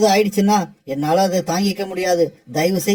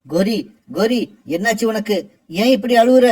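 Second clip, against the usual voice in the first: alarmed worry. Acted. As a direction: rush the question out in alarm. Husband alarmed at wife's pain.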